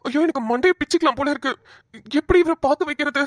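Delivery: calls Ram, desperate to be noticed; woman frantically calling to Ram nearby; frantic calling. Acted.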